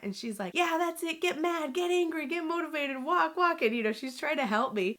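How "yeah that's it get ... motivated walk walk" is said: high-pitched imitated pep talk; fired-up goading. Mom goading angry daughter to walk, high retold urging. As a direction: egg her on like an insistent coach.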